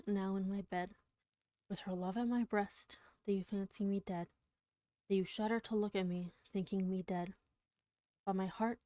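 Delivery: measured, tender poetry recital; poem reading. Acted. Streamer reading Poe to chat, hushed poetic recital.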